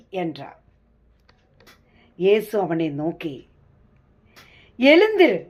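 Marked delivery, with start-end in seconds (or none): 4.8-5.4 loud, high command to rise; ringing order to get up. Acted. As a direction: call it out with authority, pitch swooping up then falling. Jesus commands the sick man.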